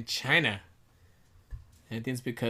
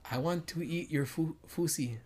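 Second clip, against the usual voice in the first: put-on Filipino accent; 5 dB quieter than usual. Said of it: "Uh, Filipinos?".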